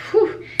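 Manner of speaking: high breathy exhale of relief; breathless whew. Real, not acted. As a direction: blow out a big whew. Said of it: "I feel like I'm getting out of breath".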